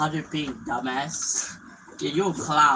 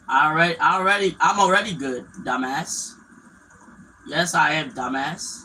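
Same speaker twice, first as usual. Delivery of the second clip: defensive shout; 3 semitones higher, 7 dB louder than usual. Real, not acted. Gamer yelling back at a teammate who insulted him, defensive.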